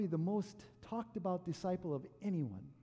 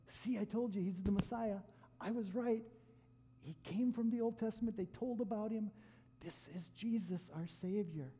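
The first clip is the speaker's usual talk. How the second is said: higher, eager I-told-you-so; excited Peter; 4 semitones higher than usual. Retold or imitated. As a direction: bubble over with vindication. Peter exulting at transfiguration.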